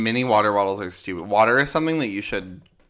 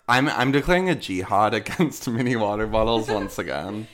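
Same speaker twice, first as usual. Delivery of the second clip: laughing; 4 dB louder than usual. Real, not acted. Mock declaration, laughing through it.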